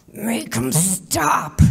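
spoken through gritted, clenched teeth. Retelling Tommy's words as Jesus is nailed to the cross, through clenched teeth. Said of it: "said with his teeth clenched".

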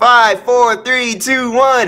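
TV broadcast announcer style.

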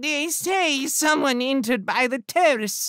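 whiny, very high-pitched voice. A man cutting into a group conversation about an intruder, whining voice. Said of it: "with a whining voice cut in".

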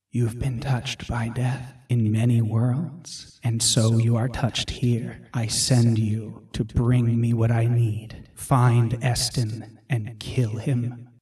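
whispering voice. Narrator voicing an unseen voice speaking to the player's character; whispering voice. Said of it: "You hear a voice whisper to you".

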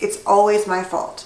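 ordinary talk, nothing marked

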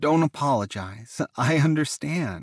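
with a laugh. Reading a reply to someone apologizing for being tired, laughing. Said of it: "Taken laughed".

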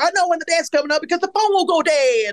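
put-on very high, light voice with slight Southern accent. Quoting a delivery Laura gave, Laura's slight Southern accent. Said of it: "like a slight Southern accented delivery".

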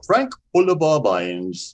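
English accent with swooping, swinging sing-song tune. Showing how to say a name like an Englishman: English accent. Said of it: "If you can say it like an Englishman".

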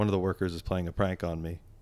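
usual speaking voice

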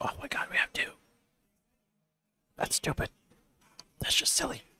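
quiet whispering. A game streamer commentating mid-match reacts to having two left: whispering. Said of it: "I don't know why I'm whispering".

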